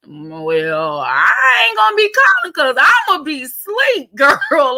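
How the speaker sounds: laughing mock protest. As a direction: crack up while refusing the late call.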